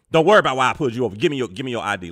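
loud, fast cop barking orders. Retold or imitated. Cop snapping at a stopped black driver, loud and fast. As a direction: snap it out like a cop at the window.

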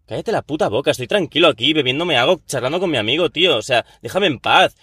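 heated rant, building to high outburst; hammed-up angry rant; mock rant. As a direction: lose your temper at the pest. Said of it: "se me ha ido la olla".

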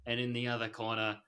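mock ring announcer. Host pitting two sequels corner against corner, mock announcer style. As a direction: present two contenders like a fight card. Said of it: "I'm talking like this".

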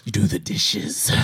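slow, menacing wrestler threat; wrestling promo. Pretend. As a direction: deliver it like a ring promo. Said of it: "by sending wrestler voice messages".

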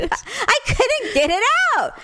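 high, near-tearful laughter through each word; laugh-crying the line; laughing helplessly. Real, not acted. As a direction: squeeze the words out between giggles. Still cracking up at the memory.

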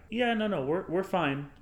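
nervous and quick to reassure; flustered high. Retold or imitated. Flustered reply to stranger.

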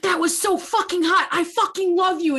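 high, hammed-up gushing lover; mock lover. Retelling the hero's declaration, high mock gushing. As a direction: gush it like a swooning hero. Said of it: "he's like".

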